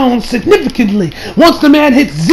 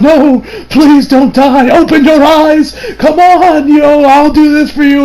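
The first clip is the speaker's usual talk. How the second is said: hammed-up pleading, slower and higher; mock anime plea; 4 semitones higher, slower than usual. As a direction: play the dramatic anime heroine begging. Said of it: "the usual anime like".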